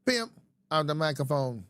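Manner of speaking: lightly put-on rapper voice; a hint of the artist's way of talking; imitated rapper's delivery. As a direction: imitate the rapper, starting high then dropping. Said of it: "He talked like this".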